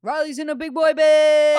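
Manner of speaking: loud, high announcement; excited. Real, not acted. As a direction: burst out with big news.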